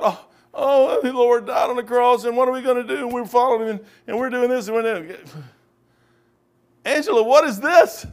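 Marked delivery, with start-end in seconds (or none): 0.0-5.1 mock worried disciples. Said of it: "They're still sitting there worried about".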